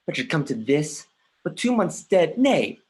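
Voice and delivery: ordinary talk, nothing marked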